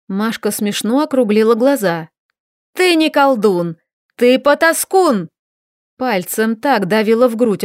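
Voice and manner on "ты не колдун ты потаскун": higher, louder, a scornful yell; angry insult. A narrator's reading. Masha insulting the cheating wizard, furious. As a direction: spit the insult at him.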